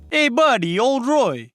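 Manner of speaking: lightly put-on New York Italian mobster accent; mock Italian mobster. Hamming up an Italian mobster ambush in New York accent. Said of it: "I'm allowed to do that accent".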